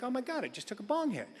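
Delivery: quick, soft horrified thought; sudden realization under his breath; hushed panic. Retold or imitated. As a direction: breathe it out in a rush of dread. Panicked inner thought, hushed, fast.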